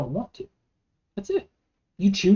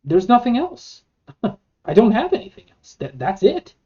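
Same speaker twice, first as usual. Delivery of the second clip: exasperated; 6 semitones higher, 7 dB louder than usual. Retold or imitated. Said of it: "throw your hands up like".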